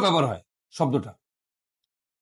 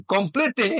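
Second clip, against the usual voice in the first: slow model; much slower than usual. Shown as a demonstration. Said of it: "teacher models French word".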